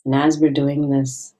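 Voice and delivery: gentle meditation guide with long pauses; guided meditation. Acted. Meditation guide invites listeners to find their childlike playfulness, gentle guiding voice. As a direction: ease listeners inward, leaving space between phrases.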